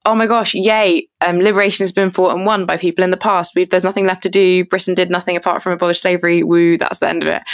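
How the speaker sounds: lightly sarcastic cheer, voice lifted at first; mock celebration. Guest parodying what school taught about abolition, mock-cheerful. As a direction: parody a self-congratulating history lesson.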